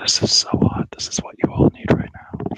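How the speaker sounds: teasing ASMR whisper. Pretend. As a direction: breathe it like a sultry secret. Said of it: "whisper like this".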